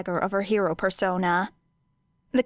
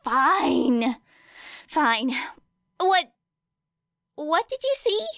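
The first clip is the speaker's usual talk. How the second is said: higher, hammed-up exasperated Hizashi; dramatic giving in; 7 semitones higher, slower than usual. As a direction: give in with theatrical sighs. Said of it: "with a dramatic sigh".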